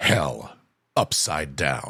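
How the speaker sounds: big, dramatic movie-trailer announcer voice. Saying a line again in a signature tagline voice. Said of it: "I'm going to say it again in my in my in my tagline voice".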